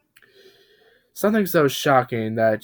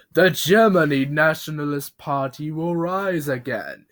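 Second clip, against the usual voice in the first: mild mock yell; 3 semitones higher than usual.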